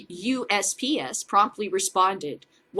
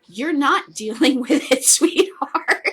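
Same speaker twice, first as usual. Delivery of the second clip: higher and louder, laughing through the words; laughing mockery; 5 semitones higher, 7 dB louder than usual. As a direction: laugh at him while you talk down to him. Mocking the attorney general.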